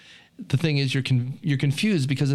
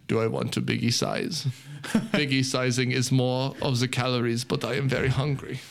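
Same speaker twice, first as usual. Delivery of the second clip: Werner Herzog. Retold or imitated. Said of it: "I do imagine him thinking".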